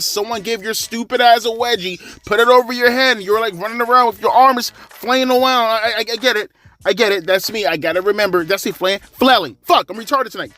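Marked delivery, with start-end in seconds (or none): none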